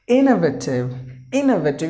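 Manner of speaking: innovative with the first syllable IN hit hardest; teacher modelling innovative; stress at the start. Shown as a demonstration. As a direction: punch the IN of innovative. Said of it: "You have to give the stress in the beginning".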